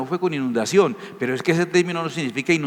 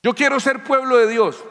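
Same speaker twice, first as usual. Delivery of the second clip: high, louder pleading voice; pleading outsider; 9 semitones higher, 3 dB louder than usual. Acted. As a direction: beg to be let in as a gentile. Gentil suplicando ser pueblo. (voz alta y suplicante de un gentil que quiere ser pueblo de Dios)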